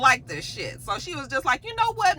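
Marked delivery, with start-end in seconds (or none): 1.6-2.2 sharp threat. Retold or imitated. Jax launching a threat.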